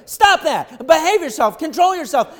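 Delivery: loud stern parental scolding; scolding the kids. Retold or imitated. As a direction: snap at overexcited children to behave. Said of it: "And we look at them and go".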